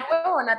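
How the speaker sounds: "Na huevona" with the final A stressed; stress on last A. Shown as a demonstration. Venezuelan guest correcting host, "Na huevona" stressed on the final A. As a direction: land the accent of "huevona" on its last A. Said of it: "tiene acento en la última A".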